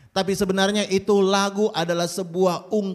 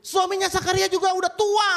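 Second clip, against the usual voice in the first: God's voice through an angel; 10 semitones higher than usual. Acted. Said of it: "Tuhan lewat malaikatnya bilang kepada Maria".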